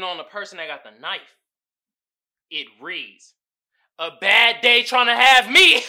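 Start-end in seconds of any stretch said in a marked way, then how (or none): 4.0-5.9 laughing. Real, not acted. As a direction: read it louder and higher, breaking into laughter. Reading the meme caption.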